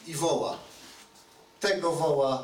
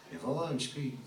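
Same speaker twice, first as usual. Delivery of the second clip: ordinary talk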